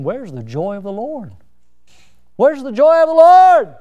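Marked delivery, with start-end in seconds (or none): 2.4-3.7 loud, high cry from the pulpit; emphatic preaching shout. Real, not acted. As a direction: demand it of the whole congregation. Preacher repeats question at full force.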